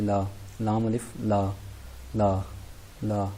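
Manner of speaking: slow ला, feel the throat vibrate; voiced la demo. Shown as a demonstration. Teacher showing students how ला vibrates in the throat, slow. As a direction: draw out ला to show the voicing. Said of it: "जैसे पढ़ता हूँ ला".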